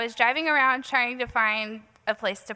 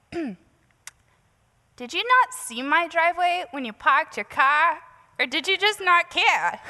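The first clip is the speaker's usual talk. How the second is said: slow, pointed and raised in pitch; irate neighbour; 6 semitones higher than usual. Retold or imitated. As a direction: lay into the careless parker, word by word. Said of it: "she was kinda yelling at me a little bit".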